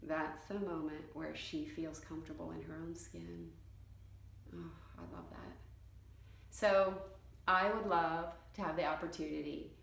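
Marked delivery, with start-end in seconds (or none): 4.5-5.6 low, hushed, heartfelt aside; moved. Real, not acted. Photographer savouring a client's moment, hushed and moved. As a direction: savour it under your breath, very low.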